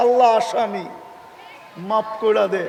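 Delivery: ordinary delivery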